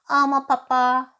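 high, loud, whiny cat echo; mewling cat. Acted. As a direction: mewl it like a cat. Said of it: "maunzte die Katze".

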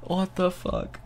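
laughing. Real, not acted. Mock disbelief at own story.

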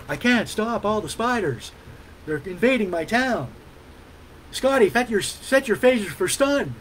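William Shatner as Texan Kirk. Retold or imitated. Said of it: "William Shatner impersonation".

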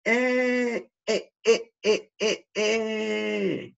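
"E" repetida, aguda y alegre; alegría exagerada. Pretend. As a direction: celebra que el niño lo hizo bien. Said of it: "kinema de la E, feliz". (felicitación al niño, agudo y alegre)

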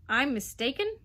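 put-on outraged old Duke roar. A narrator's reading. Duke roaring at the mother, outraged. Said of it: "roared the Duke".

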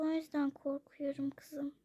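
hushed and afraid; fearful whisper. Acted. Mother whispering her fear to her daughter. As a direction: whisper it, scared the father will hear.

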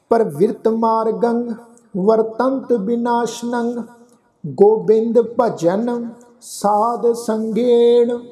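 slow, drawn-out chant of the verse; slow verse recitation. Shown as a demonstration. Teacher intoning the verse slowly for the congregation. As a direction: stretch each word, devout and unhurried.

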